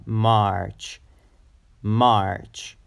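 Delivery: March with open A gliding into R; drawn-out "Mahr-ch" for March; A then R. Shown as a demonstration. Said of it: "pronounce the A sound first and then R".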